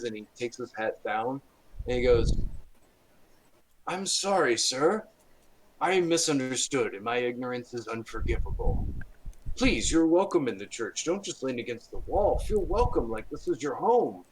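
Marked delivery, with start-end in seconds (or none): 3.9-14.2 higher, fawning apology; apologetic priest. Acted. Priest apologising to Omega, high and fawning. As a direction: grovel politely to the stranger.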